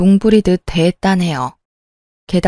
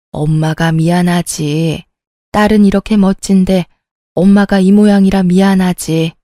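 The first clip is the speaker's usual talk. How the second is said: put-on drunk apology. Drunk mother sighing apologies to her daughter, slurred. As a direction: sigh it out like a tipsy, sorry mother. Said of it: "엄마는 술에 취해서 계속 제게 사과하셨어요".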